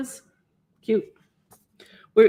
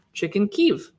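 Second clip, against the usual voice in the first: whisper. Real, not acted. Reading a recipe title.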